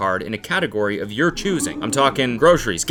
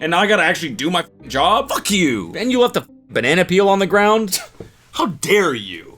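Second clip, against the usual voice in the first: mock rant; 4 semitones higher than usual. Friend voicing the cleaning lady's imagined rant, mock angry. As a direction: rant like a put-upon cleaner. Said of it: "She's like".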